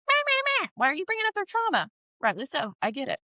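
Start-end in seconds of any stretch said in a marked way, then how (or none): 0.1-1.9 much higher mocking whiny voice, fast on the question; mocking Elizabeth. Mocking Elizabeth's scolding of the boss, in a high whiny voice. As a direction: mimic her bratty, scoffing at them. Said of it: "But Elizabeth's like".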